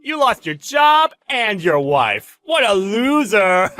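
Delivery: high, loud taunting with laughter; cruel, laughing bragging; gloating mockery. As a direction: crow over the victim, cackling between jabs. Boss gloats about stealing the wife.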